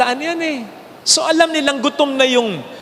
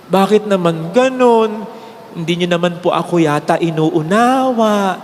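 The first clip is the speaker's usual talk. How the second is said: slow, lower and hurt, gently pleading; sad, hurt tone; 6 semitones lower, slower than usual. Retold or imitated. Priest to the crowd, mildly hurt and pleading. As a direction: say it like a tired priest let down by his flock. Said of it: "With that tone, ganun ang tono".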